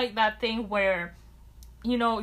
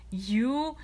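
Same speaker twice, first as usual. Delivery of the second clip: mock incredulous; 4 semitones higher, 5 dB louder, much slower than usual. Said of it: "and it's like".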